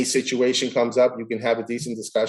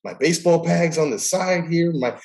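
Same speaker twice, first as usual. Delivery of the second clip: higher, mock-offended protest; mock indignant; 6 semitones higher than usual. Umpire protesting to himself about the snub, higher mock indignation. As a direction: list your spotless gear like you've been wronged. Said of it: "I'm like".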